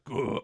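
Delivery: short growl imitating screamo music; quick mock screamo grunt. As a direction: growl like a screamo singer, briefly. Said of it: "it could be like".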